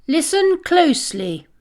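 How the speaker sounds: loud, high and stern; stern command. Acted. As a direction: call the class to order sharply. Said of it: "her voice stern".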